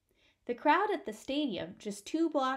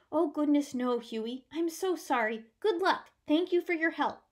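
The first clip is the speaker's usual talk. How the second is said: put-on kindly older woman; 5 semitones higher, 4 dB louder than usual. Baker's wife answers Huey.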